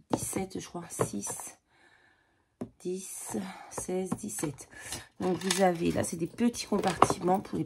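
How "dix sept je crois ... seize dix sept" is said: counting in a whisper. Real, not acted. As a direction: whisper the numbers to yourself. Counting under her breath. (chuchoté)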